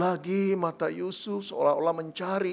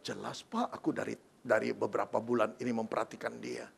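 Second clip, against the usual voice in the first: gossipy mother; 4 semitones higher than usual. Acted. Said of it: "lalu berkata".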